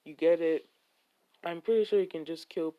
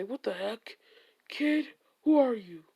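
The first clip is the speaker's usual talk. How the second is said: higher, louder startled yell at the end; startled shout; 6 semitones higher, 4 dB louder than usual. Acted. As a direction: jolt up and shout who's there. Drunk man jumped, startled.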